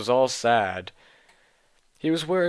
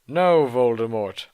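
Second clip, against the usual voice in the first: louder, defiant mock shout; shouted refusal; 5 dB louder than usual. Heroine defying Voldemort with a mock shout. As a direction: fling the refusal back. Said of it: "I shouted back".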